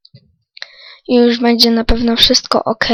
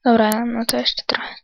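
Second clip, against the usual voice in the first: whispering; 6 dB quieter than usual. Real, not acted. Quiet aside while mining.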